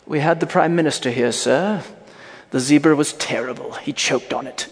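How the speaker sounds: put-on British butler voice; British accent. Butler reporting a bad dinner to his master, British accent. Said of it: "but he has a British accent".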